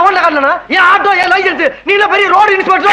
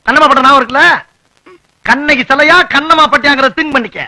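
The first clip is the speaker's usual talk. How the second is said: threatening. Acted. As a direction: warn her off with menace. Husband threatening wife. (மனைவியை மிரட்டும் கணவன், உரத்த குரல்)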